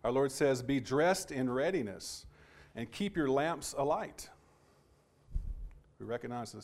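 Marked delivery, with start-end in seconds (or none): 0.6-4.3 slow, deliberate Bible reading; scripture reading. Acted. Preacher quotes Our Lord to congregation, slow scripture reading. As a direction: read the verse out slowly and clearly.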